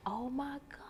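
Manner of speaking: breathless whispered oh my God; touched whisper. Retold or imitated. Mom reacting to her son's text, whispered and moved. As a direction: whisper it, overwhelmed. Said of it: "I'm like".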